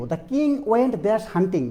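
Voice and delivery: very slow, spaced out example sentence; slow quiz read. Shown as a demonstration. Teacher reading a quiz sentence very slowly to students. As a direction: read the blank sentence word by word. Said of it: "teacher rereads quiz sentence".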